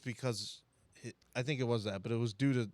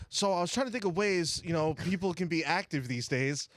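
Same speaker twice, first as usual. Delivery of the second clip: mock presenter; 4 semitones higher than usual. Acting out his class presentation.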